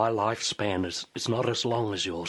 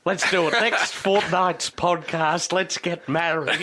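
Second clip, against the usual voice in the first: excited; 7 semitones higher, 5 dB louder than usual. Acted. Mock proposal scene.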